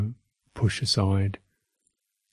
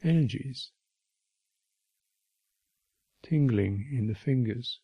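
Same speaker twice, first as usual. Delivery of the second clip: unhurried meditation guidance with long silences; name each sensation, then leave space; guided meditation; 2 semitones higher than usual. Real, not acted. Teacher guiding listeners through bodily sensations, unhurried guided meditation.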